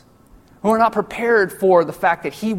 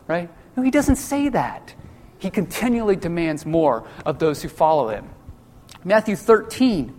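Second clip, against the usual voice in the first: ordinary talk, nothing marked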